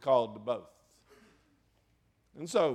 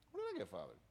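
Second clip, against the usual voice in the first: much lower, softer repeat of the prayer; low soft plea; 7 semitones lower, 11 dB quieter, much faster than usual. Retold or imitated. Preacher retelling his prayer to God, low and soft.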